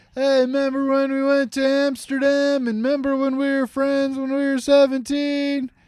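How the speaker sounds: put-on very high, pitched way up old-person voice. Imitating Will Smith talking into his computer like an old person. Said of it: "Talking like this, like an old person".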